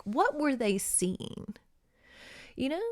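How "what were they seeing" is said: slow, softer musing on "What"; wondering aloud. Retold or imitated. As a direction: draw it out in quiet awe. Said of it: "just being like".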